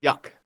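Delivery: "Duck" with a y sound in it; own pronunciation of Duck. Shown as a demonstration. Co-host confirming his pronunciation, Duck rhyming with and sounding like yuck. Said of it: "That's how I say it".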